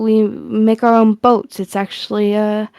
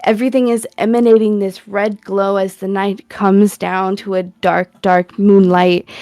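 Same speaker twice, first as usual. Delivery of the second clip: scene setting. Acted. GM sets the festival scene.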